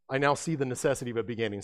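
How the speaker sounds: quick, lightly voiced Einstein; a hint of Albert Einstein, said fast; faint mock Einstein, hurried; Albert Einstein impression. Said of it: "that was my best Albert Einstein".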